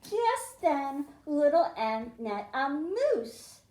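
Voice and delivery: lively, sing-song storybook read-aloud; reading to children. Acted. Teacher reading a picture book to the class, lively and sing-song. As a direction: read it like story time for little kids.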